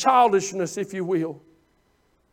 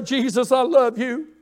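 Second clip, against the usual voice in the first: hushed private worship. Shown as a demonstration. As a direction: pray it gently, almost to yourself. Modelling a quiet prayer.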